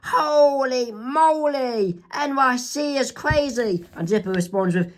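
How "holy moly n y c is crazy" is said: much higher, very slow amazement; Mabel amazed. Acted. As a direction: marvel wide-eyed at the city. Mabel shocked.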